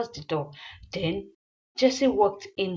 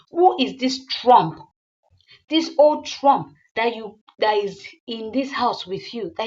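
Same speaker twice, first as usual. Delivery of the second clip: louder accusing challenge; angry demand; 2 semitones higher, 6 dB louder than usual. Acted. Jealous woman demanding Zane explain his guest, loud and angry. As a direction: spit out the insult. Jesse repeats demand after slap.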